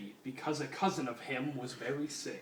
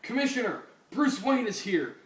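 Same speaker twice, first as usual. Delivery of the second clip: mock call higher; mild shout; 7 semitones higher, 4 dB louder than usual. Fat cop calling the commissioner, mild mock shout. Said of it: "shouted the fat-ass pork".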